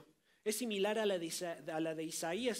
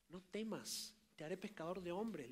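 soft reassurance; 7 dB quieter than usual. Acted. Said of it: "le dijo Jesús a Simón".

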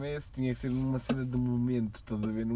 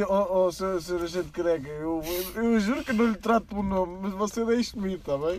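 put-on stammering Lisbon accent plea, laughing; a Lisbon accent, begging the bald cop; 6 semitones higher, 4 dB louder than usual. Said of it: "Eu sei".

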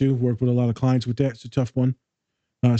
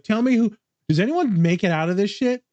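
lightly acted plea, pitched up; imitating pleading clients; 8 semitones higher than usual. Therapist quoting clients seeking hope, mock pleading. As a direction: voice a client's exasperated question, higher. Voices clients' desperate question.

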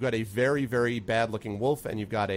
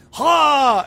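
sharp loud high "Ha!"; a loud goblin yell; shouted bark; 12 dB louder than usual. Retold or imitated. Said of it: "it sounded like he was like".

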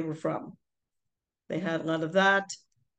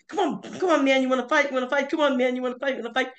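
put-on taunting boys; 6 semitones higher, faster than usual. Boys taunting a gorilla at the zoo, high jeering. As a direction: egg the gorilla on like a cocky kid. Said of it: "gorilla going".

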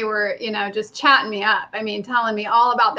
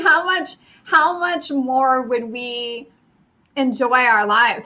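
usual speaking voice

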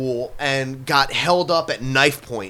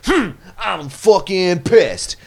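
mock complaint; 2 semitones higher than usual.

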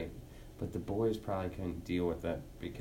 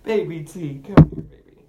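calling out; 7 semitones higher, 19 dB louder than usual. Real, not acted. Calling the cat.

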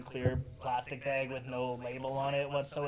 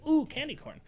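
much higher, fake thrilled ooh; mock delight; 11 semitones higher than usual. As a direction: gush sarcastically over candy corn. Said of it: "I don't know anyone who says".

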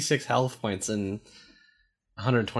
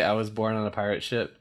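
holding tongue with fingers; 3 semitones lower, 4 dB quieter than usual. Shown as a demonstration. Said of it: "Do you ever hold your tongue and say".

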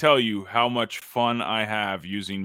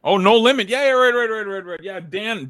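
high, excited realization; a lot higher, it just clicked; sudden recognition; 12 semitones higher, 6 dB louder, faster than usual. Real, not acted.

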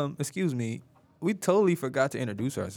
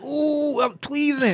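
mock brag; 12 semitones higher, much slower than usual. Retelling friend's excited boast.

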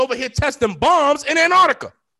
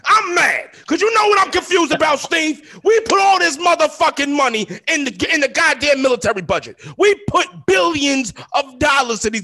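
angry rant; 4 semitones higher than usual. Real, not acted. Host ranting about military spending, angry shouting. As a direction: rant like you've finally snapped. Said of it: "now we got a motherfucking rant".

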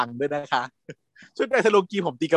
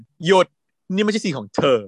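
stern block; 4 semitones higher, 3 dB louder than usual. Retold or imitated. Blocking rival in a drama scene.

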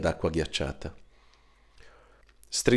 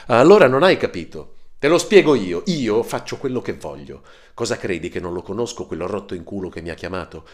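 shouting in his face; 2 semitones higher, 5 dB louder than usual. Acted. Marco towering over his brother: loud furious shouting. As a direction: yell it down at him with all your contempt. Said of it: "gli urlò in faccia".

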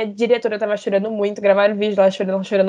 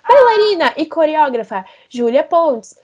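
announcer voice. Retold or imitated. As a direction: present the dancer like an MC. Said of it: "Aí anunciou meu nome". (imitação leve de locutor de palco)

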